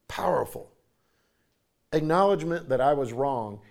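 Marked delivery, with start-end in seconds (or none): 0.1-0.7 whispered echo. Acted. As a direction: breathe the word powerful as a hushed echo. Echoes powerful in a whisper.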